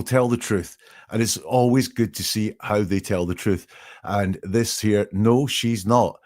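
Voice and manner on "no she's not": slow demo. Shown as a demonstration. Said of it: "is very truthful".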